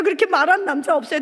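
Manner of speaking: ordinary delivery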